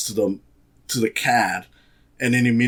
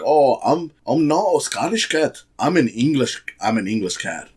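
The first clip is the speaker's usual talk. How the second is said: lightly mocked posh English accent, pitched up; a half-hearted English accent, higher at first; mock English cat; 3 semitones higher than usual. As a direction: poke fun at him switching to an English accent. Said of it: "'cause he's like".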